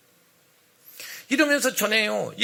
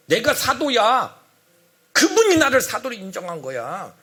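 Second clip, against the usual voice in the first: angry apostle; 3 semitones higher, 4 dB louder than usual. Acted. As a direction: assert it indignantly, drawing out the words. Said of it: "화가 났어요".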